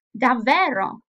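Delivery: Davvero said with a doubtful, surprised fall. Shown as a demonstration. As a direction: make Davvero sound like disbelief. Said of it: "the intonation came with these expressions".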